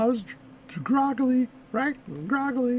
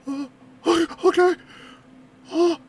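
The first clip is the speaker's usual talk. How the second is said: terrified; 3 semitones higher than usual. Retold or imitated. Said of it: "He was so terrified".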